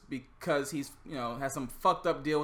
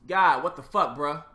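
exasperated Job; 7 dB louder than usual. Retold or imitated. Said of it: "Job in that point in time was just like".

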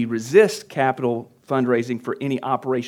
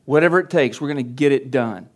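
louder, can-do declaration; mock gung-ho entrepreneur; 5 dB louder than usual. Leader voicing his team's charge-ahead attitude, a bit louder. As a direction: push it through like a driven founder. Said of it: "We, we're like".

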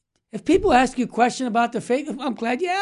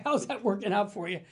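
soft echo; 7 dB quieter than usual. Retold or imitated. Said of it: "that's a great line".

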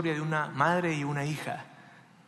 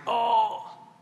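high, drawn-out "oh" of dismay; stunned "oh"; 7 semitones higher than usual. Acted. Soldiers react to the king's order, stunned. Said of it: "se quedan".

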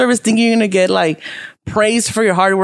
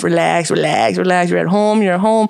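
self-soothing; 3 semitones lower than usual. Retold or imitated. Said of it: "I was just telling myself".

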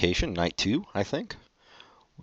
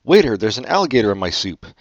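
retold yell; 5 dB louder than usual. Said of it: "I yelled out".

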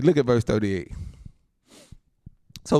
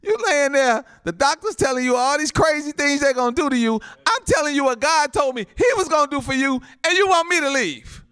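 raised, high-pitched pulpit exclamation; indignant preaching; 9 semitones higher, 4 dB louder than usual. Acted. Preacher to a sick person refusing prayer, indignant preaching. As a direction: press the point in mock disbelief.

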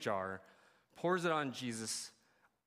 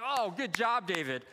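hammed-up congratulations, dropping on the name; mock praise; 3 semitones higher, 4 dB louder than usual. Churchgoers applauding David after victory, mock praise.

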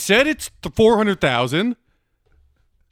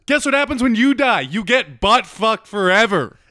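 mock God. God voiced telling about hell.

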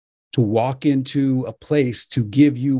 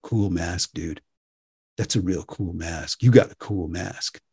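low, soft easygoing dude voice; laid-back shopper; 6 semitones lower, 4 dB quieter than usual. Retold or imitated. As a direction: drop into a chill, unbothered customer. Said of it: "people kept coming up to me in the aisles and saying".

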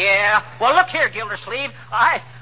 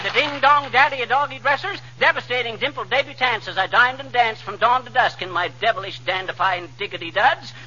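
rapid patter; 3 semitones higher than usual. Acted. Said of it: "I'm out of breath".

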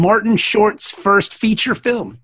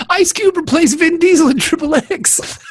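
higher, fake tearful complaint; mock whimpering; 4 semitones higher than usual. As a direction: whimper it as a petty grievance. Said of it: "who's just whimpering?".

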